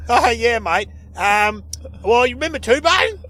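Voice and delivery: high, loud, excitable talkback caller; caller impression. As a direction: pitch it up like an over-keen radio caller. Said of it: "he sounded like one of your code".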